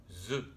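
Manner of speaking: « Z » dit « ze », z sonore. Shown as a demonstration. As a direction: isoler le son z voisé, comme « ze ». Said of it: "ici vous avez bien le son". (le son « ze » isolé, bien voisé)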